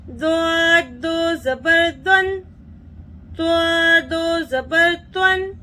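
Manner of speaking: rhythmic sing-song spelling chant; teacher chanting the nunation table; qaida recitation drill. Shown as a demonstration. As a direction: chant each letter for children to repeat. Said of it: "अभी मैं पढ़ती हूँ।".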